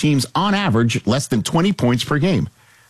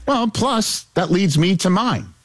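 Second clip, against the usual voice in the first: playfully raised pitch; higher register; 6 semitones higher, slower than usual. Pretend. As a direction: start high, easing down slightly. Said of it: "still gotta go higher register".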